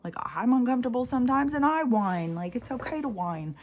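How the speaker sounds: talking herself down, brighter and up; self-talk. Retold or imitated. Telling herself the dog's whining is okay, lifted. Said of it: "to be able to be like".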